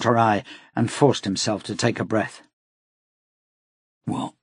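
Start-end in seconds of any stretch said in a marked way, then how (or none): 4.0-4.3 gentler. A narrator's reading. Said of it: "he repeated in a gentler tone".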